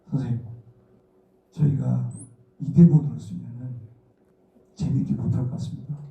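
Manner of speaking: carefully broaching it to a respected director; hesitant, broken by careful pauses; cautious retold request. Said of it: "조심스럽게 말씀을 드렸어". (조심스럽게 말씀드리듯)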